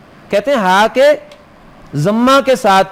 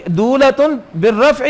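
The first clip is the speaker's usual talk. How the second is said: دولتن stretched slow and higher, reciting; slow higher recitation of دولتن; drawn-out recitation; 4 semitones higher, slower than usual. Shown as a demonstration. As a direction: chant دولتن بالرفع slowly like a verse. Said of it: "یہ کیسے قرات بیان کی؟".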